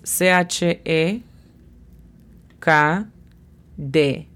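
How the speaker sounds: letter by letter, pausing between sounds; phonetic spelling. Shown as a demonstration. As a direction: spell out C H E K D in Spanish letter names. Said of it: "La pronunciación fonética es". (deletreo fonético, letra por letra)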